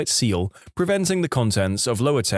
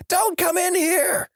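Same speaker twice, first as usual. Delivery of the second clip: even higher, slow wailed warning; long high-pitched play-acted cry; drawn-out mock yell; slower than usual. A narrator's reading. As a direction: stretch each word in a very high yell. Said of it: "with him yelling".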